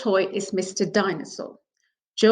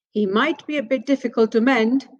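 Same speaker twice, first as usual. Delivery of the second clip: doubtful; 3 semitones higher than usual. Acted.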